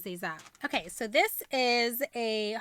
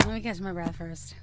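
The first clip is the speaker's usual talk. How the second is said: normal talking voice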